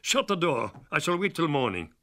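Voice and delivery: high, loud plea, almost a shout; desperate cry. Acted. Jonathan crying out to the Count in desperation, high and loud. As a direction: yell it as your last chance. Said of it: "as a last chance I cried out".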